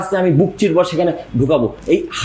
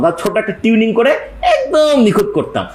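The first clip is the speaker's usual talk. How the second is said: laughing; 4 semitones higher than usual. Real, not acted. Recalling radio tuning, laughing.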